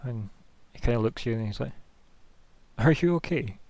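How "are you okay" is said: high, wobbly gentle question; watery voice. Acted. Creature gently checking on the hero, watery voice. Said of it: "But with his watery voice".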